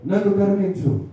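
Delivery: loud pleading cry to Jesus; loud beggar's plea. Retold or imitated. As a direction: call out like a blind beggar begging mercy. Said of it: "బిగ్గర బిగ్గరగా కేకలేస్తున్నాడట".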